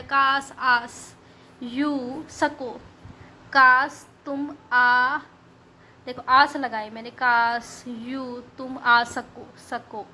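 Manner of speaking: drawn out slowly, word by word; slow spelled-out mnemonic. Shown as a demonstration. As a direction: stretch each word for memory. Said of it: "दोनों same same है".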